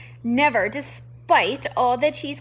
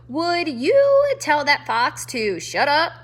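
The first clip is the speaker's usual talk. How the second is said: irritated demand; 3 semitones higher, 6 dB louder than usual. Acted. Grumpy porcupine demands quiet.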